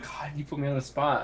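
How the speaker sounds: breathy whispered aside; whispering. Real, not acted. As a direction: whisper it under your breath. Caught off guard by question.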